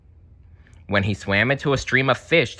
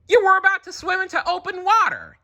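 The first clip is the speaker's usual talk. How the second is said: high, louder frantic scolding; accusing dad; 4 dB louder, faster than usual. Acted. Marlin scolding Nemo at the reef edge. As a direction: scold him out of sheer fear. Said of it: "he accused".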